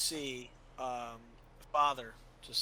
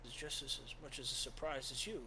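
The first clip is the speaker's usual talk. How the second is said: put-on soft reassuring old priest; gentle priest; 3 dB quieter than usual. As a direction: soothe him like a kindly father. GM voices Father.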